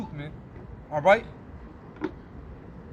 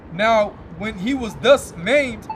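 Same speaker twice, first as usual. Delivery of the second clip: scripture reading. Acted. Preacher reading Maccabees to his listeners, slow and solemn. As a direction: intone the verses like a preacher at the pulpit.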